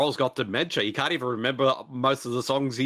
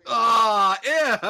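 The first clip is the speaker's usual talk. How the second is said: disgusted; 9 semitones higher, 5 dB louder than usual. Real, not acted. Disgust at mess.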